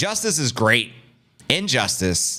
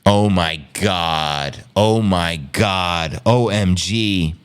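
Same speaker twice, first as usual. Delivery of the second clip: slow, low oh my god, dazed; slow stunned disbelief; 4 semitones lower, much slower than usual. Real, not acted. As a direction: drag it out lower, deflated. Stunned by verdict.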